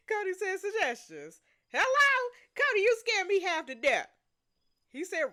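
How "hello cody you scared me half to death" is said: startled. Real, not acted. Startled by game character.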